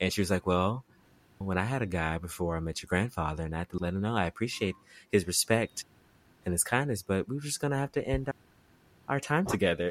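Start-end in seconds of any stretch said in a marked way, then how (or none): 1.4-9.9 soft, gentle, much quieter, hushed delivery. Quoting how grandma told of ending things with a guy, soft and quiet. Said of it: "she said it so soft and quietly".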